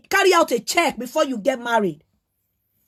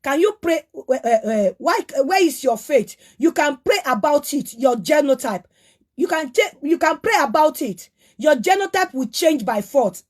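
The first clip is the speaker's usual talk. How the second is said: mocking quote; 3 semitones lower than usual. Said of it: "ó ní".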